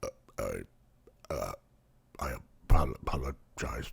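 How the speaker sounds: unvoiced, embarrassed whisper; whispered apology. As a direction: breathe the apology out. Awkward apology.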